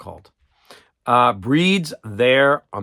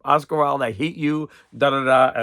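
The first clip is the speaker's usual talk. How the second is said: mock outrage; 3 semitones higher than usual. Quoting an online reviewer who cursed Oscar Wilde, mock outrage. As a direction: spit out the curse like an upset fan. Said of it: "they're like".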